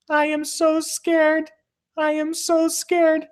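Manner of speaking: very high, slow, whimpering mock voice of a frightened girl; hammed-up high scared whine; scared girl imitation. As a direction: squeak it out like a terrified little runner. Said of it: "all she could hear was".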